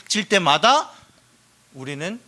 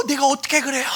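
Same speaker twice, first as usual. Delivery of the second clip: higher, reluctant protest; timid protest; 7 semitones higher, faster than usual. Retold or imitated. A believer refusing to cry out to God, higher and timid. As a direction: shrink back from the idea. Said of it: "막 이런단 말이야".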